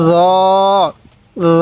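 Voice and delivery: জ said softly, drawn out long; a long, soft জ, not hard like jim; teacher's slow model of a soft জ. Shown as a demonstration. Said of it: "জটাকে নরম করে উচ্চারণ করব".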